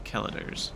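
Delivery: "kellators" as KELL-uh-ders; hard k and stress up front in "kellators"; variant pronunciation. Shown as a demonstration. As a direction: say "kellators" starting KELL, with a weak middle. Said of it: "ten different ways you could pronounce that".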